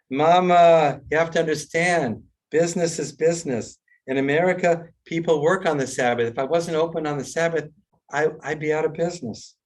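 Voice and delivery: exasperated son. Acted. Joke, son justifies himself.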